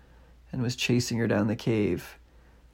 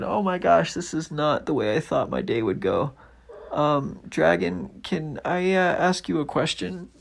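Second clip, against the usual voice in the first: put-on high, flustered girl; dismayed then timid asking; high girl's voice, nervous; Nellie's voice; 6 semitones higher than usual. Nellie flustered before dragon.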